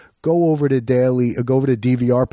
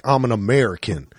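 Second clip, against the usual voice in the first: lightly imitated Southern American accent; Texas drawl; 3 semitones lower than usual. Shown as a demonstration. Imitating British actors playing Americans, light Texas drawl. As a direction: put on a slight Texas drawl. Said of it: "like, a Texas drawl".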